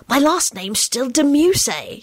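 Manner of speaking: put-on high, slow boyish complaint; gloomy. A narrator's reading. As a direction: drag it out gloomily. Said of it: "he intoned gloomily".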